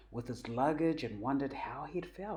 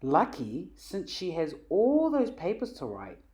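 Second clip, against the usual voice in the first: cheeky grinning quip, a bit louder; with a grin; 4 semitones higher, 6 dB louder than usual. A narrator's reading. Jack jokes with Dad about Mum, grinning. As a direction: tease with a smile in your voice. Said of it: "Jack added with a grin".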